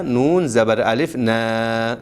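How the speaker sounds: نا with a short, unstretched alif; normal length. Shown as a demonstration. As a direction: say نا without drawing it out. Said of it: "اس پہ مد نہیں ہے".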